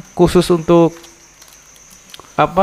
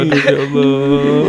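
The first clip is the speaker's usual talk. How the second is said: slow pained sigh after laughing; groaning from laughing too hard; slower than usual. Real, not acted. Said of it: "ketawa tuh sakit banget loh". (mengaduh kesakitan)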